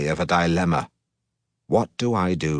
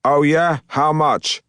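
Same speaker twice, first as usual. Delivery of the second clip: louder, higher challenge; challenging; 7 semitones higher, 4 dB louder, slower than usual. Acted. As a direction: demand it loudly. Heated bet with the rival.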